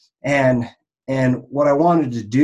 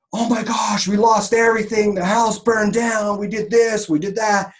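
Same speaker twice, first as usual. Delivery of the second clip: mock dramatic ad; 9 semitones higher than usual. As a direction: ham up a tragic sales pitch, pitched way up. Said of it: "this one's like".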